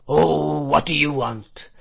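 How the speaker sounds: put-on drawn-out, droning whine from a fierce old man; fierce monotonous whine. A narrator's reading. Old shopkeeper accosting a frightened boy, fierce monotonous whine. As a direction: whine it fiercely, letting the first word swell. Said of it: "in a fierce monotonous whine".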